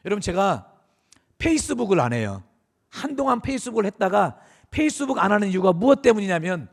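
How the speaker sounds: normal talking voice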